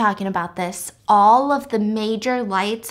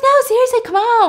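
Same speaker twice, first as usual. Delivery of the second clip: insistent; 12 semitones higher, 5 dB louder than usual. Acted. Dan insisting on his question.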